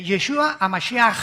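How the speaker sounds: "Yeshua a Mashiach" with a throaty ch at the end; Hebrew pronunciation. Shown as a demonstration. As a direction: say "Mashiach" ending in a guttural ch. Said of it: "se pronuncia la C H".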